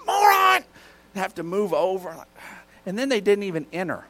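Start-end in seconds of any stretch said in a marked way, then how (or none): 0.0-0.6 high, quick mock yell; offhand irritated jab. Driver at someone cutting him off, irritated. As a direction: toss out an irritated insult, short of rage. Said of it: "I just offhanded, I don't go on a huge rage".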